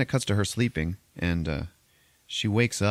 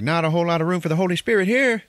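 stern priest; 10 semitones higher, 5 dB louder, faster than usual. Retold or imitated. Priest interrupting a kiss.

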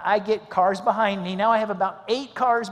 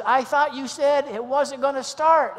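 high, loud, slow questioning; retold disbelief, pitched up; puzzled attendant; 7 semitones higher, 6 dB louder than usual. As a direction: act out a baffled gas attendant. Acted puzzled gas attendant, retold.

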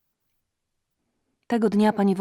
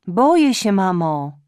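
afraid; 8 dB louder than usual. Acted. Daughter cries out fear.

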